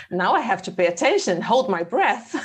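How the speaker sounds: amused mock alarm, breaking into laughter; laughing as you act out bracing yourself; laughing retelling. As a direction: retell your own panic through a laugh. Laughs retelling her phone panic.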